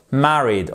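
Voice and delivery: "Married" with a short A as in "cat"; "Married" with short open A up front; British short A. Shown as a demonstration. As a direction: say "Married" British-style, MA-rid. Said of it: "comme un A court en anglais".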